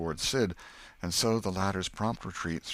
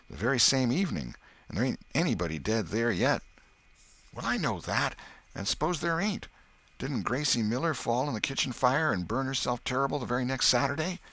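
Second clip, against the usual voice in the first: put-on higher, louder boys arguing omens; superstitious boy; 5 semitones higher, 4 dB louder than usual. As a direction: insist like a kid who knows ghost lore.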